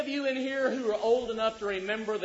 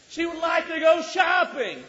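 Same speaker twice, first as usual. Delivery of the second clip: punchline shout; 6 semitones higher, 5 dB louder than usual. Real, not acted.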